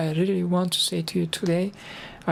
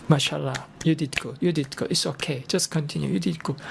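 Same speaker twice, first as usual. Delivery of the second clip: mildly soothing, slightly lowered voice; gentle reassurance; 3 semitones lower than usual. Retold or imitated. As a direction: retell a teacher's calm encouragement. Retold imam's reassurance to a learner.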